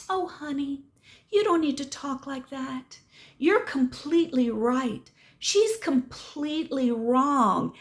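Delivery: honeyed mock reassurance; mock coddling. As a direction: lightly imitate a woman soothing a child. Grandma soothing the cursing boy.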